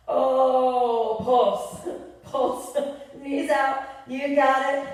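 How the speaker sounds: strained voice while holding a squat; shaking with effort. Real, not acted. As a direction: push words out through the burn. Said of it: "Oh, my legs are shaking so good".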